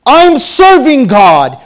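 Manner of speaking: high, slow exclamation of pride; self-assured, high-pitched zeal; mock delight. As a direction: proclaim it high and loud, drawing it out. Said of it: "you're like".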